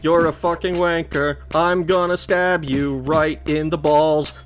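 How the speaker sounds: slow seething rant. Real, not acted. Ranting at enemy golem.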